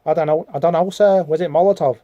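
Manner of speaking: cartoon sixties-pop-band-style Liverpool accent; Liverpudlian accent. A schoolboy answers his teacher, put-on Liverpool accent. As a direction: do a rough, put-on Scouse. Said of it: "probably talks like, um, one of a famous sixties band".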